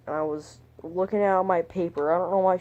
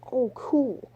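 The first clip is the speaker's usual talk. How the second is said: breathy, high whisper of "Oh, cool."; whispered reply; 7 semitones higher than usual. Retold or imitated. Recalling his awkward reply to Chelsea, whispered. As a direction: breathe the words out, awkward and shy.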